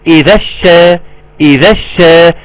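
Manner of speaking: "إذا الشا" run together, straight onto a doubled sheen; correct recitation join. Shown as a demonstration. Teacher showing students how skilled reciters join it, correct recitation join. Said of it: "إنما اللي عارف يقول إيه؟".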